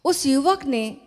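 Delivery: deliberate, emphatic storytelling from a text; story reading. Acted. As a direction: read the tale out phrase by phrase. Reads the story in the letter. (कहानी का सधा हुआ, ज़ोरदार पाठ)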